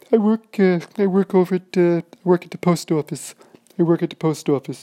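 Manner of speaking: squeaky, very high and loud man's voice; very high-pitched voice. Retold or imitated. The big guy answering that he works at the post office, very high-pitched. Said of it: "in this very high-pitched voice".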